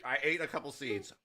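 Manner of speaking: chuckling through the words; soft laugh while speaking. Real, not acted. Laughs after the sour bite.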